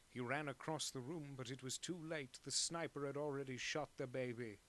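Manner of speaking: audiobook narration in a put-on British accent; lightly faked English narrator; fake English accent. Shown as a demonstration. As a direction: read it like a British mystery narrator. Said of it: "I just talk like this for hours".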